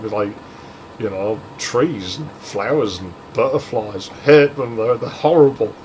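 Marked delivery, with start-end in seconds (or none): 4.1-5.7 mock whine, louder on the first words; retold whining. Girl rejecting trees and butterflies, mildly whiny retort. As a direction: imitate a petulant complaint. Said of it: "she just kept whining at me".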